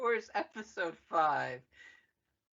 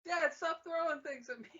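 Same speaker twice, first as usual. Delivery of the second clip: whiny son; 9 semitones higher than usual. Acted. Son whining at Vader.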